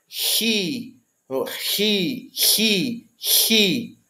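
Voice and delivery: "ri" with a rough sound at the back of the throat; "ri" with a rasp at the back; back fricative chi. Shown as a demonstration. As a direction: say "ri" like the J in Spanish mujer. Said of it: "mais africada".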